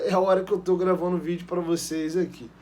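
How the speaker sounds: ordinary talk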